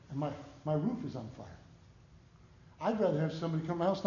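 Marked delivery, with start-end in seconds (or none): 0.1-1.5 quiet and offhand, as if nothing is wrong; calm understated report. Retold or imitated. Neighbor casually telling of the fire, quiet and unbothered. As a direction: mention the fire like small talk, softly. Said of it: "Same fact, just how you express it".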